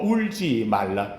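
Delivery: a low slow soft Jesus telling her not to cry; gentle hushed comfort. Acted. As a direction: hush her tears tenderly, drawing out each word. Jesus speaks to the widow.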